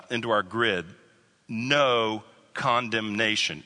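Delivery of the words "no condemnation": "No condemnation" slow and drawn out, each word weighted; emphatic. Real, not acted. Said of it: "It's emphatic".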